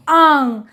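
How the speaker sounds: आंग drawn out through nose and mouth; long आंग with the vowel ringing in the nose; nasal vowel. Shown as a demonstration. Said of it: "नाक और मुंह दोनों से ध्वनि".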